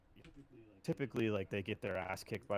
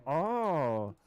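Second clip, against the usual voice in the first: much higher, louder mock fan voice; hammed-up drunk skinhead asking where he's from; rowdy German fan; 9 semitones higher, 10 dB louder than usual. Skinhead fans on the train quizzing the American, high loud mock voice.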